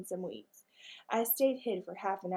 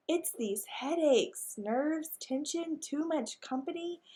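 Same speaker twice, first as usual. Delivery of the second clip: weak, whispered swoon; faked faint; 6 semitones higher, slower than usual. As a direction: feign a headache in a breathless whisper. Maggie fakes fainting spell.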